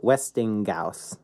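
Westinghouse said with a hard g, "Westing-gouse"; imitated mispronunciation. Retelling Desi Arnaz reading a magazine, hard-g mispronunciation. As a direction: say "Westinghouse" with a g replacing the h. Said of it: "he's pronouncing it Westinghouse".

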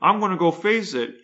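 mock bravado facing the wave; cocky dad voice. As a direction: puff up like a dad showing off. Dad voiced boasting before wave.

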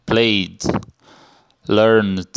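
played and learned each ending in a voiced D. Shown as a demonstration. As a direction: say played and learned in one syllable with a final D. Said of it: "vai ter som de D". (played e learned com som final de D)

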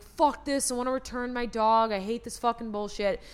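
half-hearted angry grumble about the puppy; mock rant. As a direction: fake a frustrated rant at the dog. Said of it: "I'm like".

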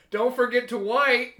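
high, loud parting shout; shouted farewell. Acted. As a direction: call it out loudly, drawing the words out. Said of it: "I shout".

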